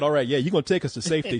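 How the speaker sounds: ordinary talk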